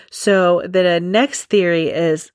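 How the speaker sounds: slow, measured news anchor read; newscaster voice. Shown as a demonstration. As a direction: announce it like the evening news. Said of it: "I literally just sounded like a newscaster".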